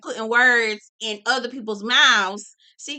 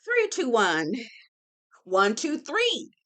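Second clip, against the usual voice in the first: calming count; slower than usual. Pretend. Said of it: "I had to do my one, two".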